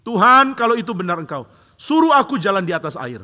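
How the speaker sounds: high, loud bold request; loud eager plea; Peter calling out. Retold or imitated. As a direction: call boldly across the water.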